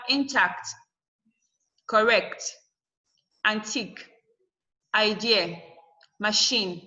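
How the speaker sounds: intact, correct, antique, idea, machine, each stressed on the second syllable; in-TACT, cor-RECT, an-TIQUE, i-DE-a, ma-CHINE as separate examples. Shown as a demonstration. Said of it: "at the second syllable".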